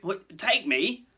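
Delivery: high, loud, slow disbelief; trembling alarm. Acted. Hagrid learning he will be taken, alarmed. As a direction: interrupt in dawning fear. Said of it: "who was trembling".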